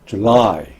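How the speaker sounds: "July" with a strong LY; light first syllable, weighted end of "July"; stress on second syllable. Shown as a demonstration. Teacher modelling July for repetition, second-syllable stress. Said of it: "엘와이 부분에 강세가 있습니다".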